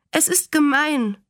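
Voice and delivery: put-on high-pitched child's protest; mildly tearful, understated acted complaint; schluchzend. A narrator's reading. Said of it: "schluchzte sie". (kindlich klagend, leicht weinerlich)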